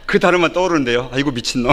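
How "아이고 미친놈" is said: 웃으며 따라 하기. Retold or imitated. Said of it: "그 치읓자 발음만 들린 것 같아서".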